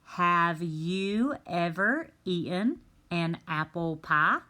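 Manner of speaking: a teacher testing the unscrambled question; trying the fix. Shown as a demonstration. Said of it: "Do you think it is".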